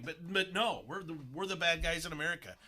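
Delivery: mock self-loathing, heavy with sarcasm; sarcastic. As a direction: pretend to agree, sarcastically. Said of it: "I'm being sarcastic".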